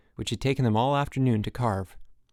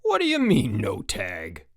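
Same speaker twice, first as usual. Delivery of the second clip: outraged cry; 2 semitones lower than usual. A narrator's reading. Frank challenging the referee's ruling, crying out. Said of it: "cried Frank".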